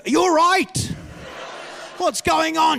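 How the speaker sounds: hammed-up worried questions; alarmed asking. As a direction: call it out high, as if to someone in a state. Acts himself asking his alarming wife.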